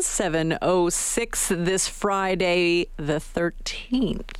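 slow spooky witch voice. Pretend. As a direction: drag it out like a Halloween witch. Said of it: "That's my witch voice".

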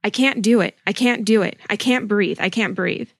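put-on reading a screaming child, understated; a hint of fear rising then fading; mild mock panic. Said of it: "She's screaming".

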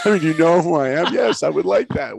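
high, loud mock-incredulous acceptance; exuberant reply. Student answers the gatekeeper's offer, exuberantly. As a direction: burst out as if the answer were obvious. Acts out eager reply to Bill.

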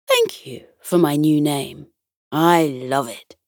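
deep, calming bear voice, lightly acted; Captain Fluffy Ears. Teddy bear captain greeting the children, deep and calming. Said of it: "In a deep, calming voice".

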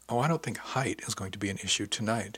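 "height" leaned on within a gently spoken line; soft, emphasis on height. A narrator's reading. Bev hints to her friend, softly emphasizing "height". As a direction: say it softly, pointedly stressing "height". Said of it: "she said softly, with a particular emphasis on the word height".

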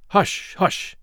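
whispered urgent shushing; urgent hush. A narrator's reading. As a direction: hush him quickly, afraid of being heard. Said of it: "exclaimed the doctor".

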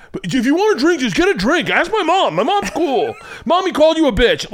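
high, mocking big-brother voice; mock brothers ribbing a shy guest; teasing older brothers. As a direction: needle the guest playfully.

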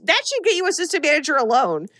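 amazed you did that; incredulous praise. Retold or imitated. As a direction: gush in disbelief at her success. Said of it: "And I'm like".

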